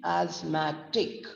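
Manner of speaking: ASTHMATIC slowly, with a weighted final TIC; slow down "asthmatic" and lean on its last syllable, "tic"; stress on TIC. Shown as a demonstration. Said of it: "we are stressing more on T I C".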